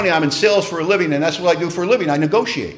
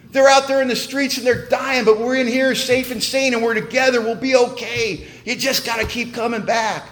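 raised, eager welcome to a scared newcomer; excited sponsor; 5 semitones higher than usual. Retold or imitated. Sponsor welcoming newcomer to AA, excited and raised. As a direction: gush it like you're overjoyed he made it. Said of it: "And he was so excited to see me".

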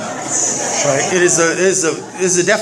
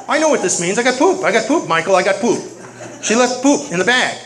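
worked-up complaint; 5 semitones higher than usual. Retold or imitated. Speaker tells the meeting about his morning trash chore, worked-up complaint. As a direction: play up the indignant grievance. Acts out his poop grievance.

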